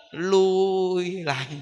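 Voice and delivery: heavy, dragging retreat; slow drag back. Shown as a demonstration. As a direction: let the words sag backward, slowly. Demonstrating slipping back.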